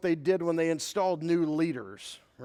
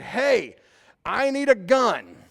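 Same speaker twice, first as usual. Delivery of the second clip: calling out; 4 semitones higher, 5 dB louder, slower than usual. Retold or imitated. Yelling to wife about snake.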